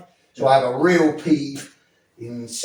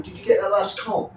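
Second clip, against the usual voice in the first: talking to a colleague; 5 semitones higher than usual. Shown as a demonstration. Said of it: "As if I'm talking to a colleague".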